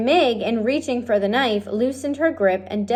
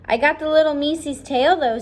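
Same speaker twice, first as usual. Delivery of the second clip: put-on proud girl; 6 semitones higher than usual.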